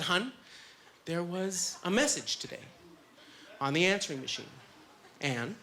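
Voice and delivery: gently breaking the news; careful, halting, gentle delivery. Retold or imitated. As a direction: tread carefully, pausing between phrases. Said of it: "really gentle".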